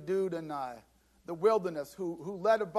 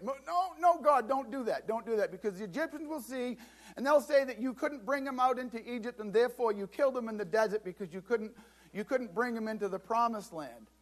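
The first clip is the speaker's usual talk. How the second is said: desperate pleading; 3 semitones higher than usual. Acted. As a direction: plead frantically to stop God. Moses begging God to spare them.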